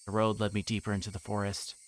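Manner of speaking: plain reading voice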